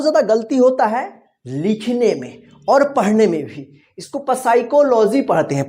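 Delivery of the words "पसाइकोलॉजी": पसाइकोलॉजी with a sounded "pa" at the front; mispronounced with P. Shown as a demonstration. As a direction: demonstrate the mistake पसाइकोलॉजी, voicing the silent P. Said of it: "पसाइकोलॉजी नहीं होगा".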